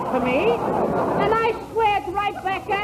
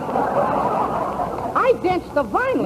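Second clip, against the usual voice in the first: slow, laughing echo of her words; mocking laugh; much slower than usual. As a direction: laugh it back at her, slowly. Mocking repeat of her compliment.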